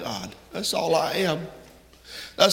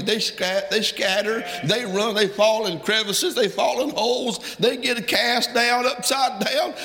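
building fervor; 5 semitones higher than usual. Real, not acted. Preacher building on lost sheep.

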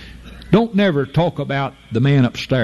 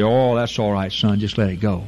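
soothing granddaddy voice; 5 semitones lower than usual. Retold or imitated. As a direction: let it slide like a kindly old grandpa. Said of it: "they say".

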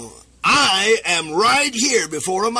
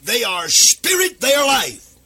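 fervent preaching shout; 4 semitones higher, 3 dB louder than usual. Acted. Preacher quoting Jesus, rising fervour.

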